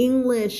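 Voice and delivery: English with the sh drawn out long; long final sh. Shown as a demonstration. Teacher drilling students on the airy ending, English with long sh. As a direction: let English trail into a long airy shhh. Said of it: "เสียงลม เพราะฉะนั้นมันจะลากยาว".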